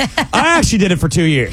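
mock solemn, like serving a sentence; a hint of a weary ex-convict; grim prison-term mock. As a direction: imitate him as if recounting prison time. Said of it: "like it was a prison term".

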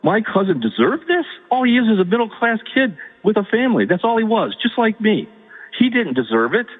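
pleading, voice rising, hurt and outraged; upset pleading. Real, not acted. Caller upset about cousin's ordeal.

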